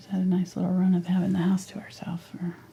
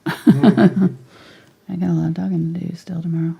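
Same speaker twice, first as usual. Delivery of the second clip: laughing whisper; 5 dB louder than usual. Real, not acted.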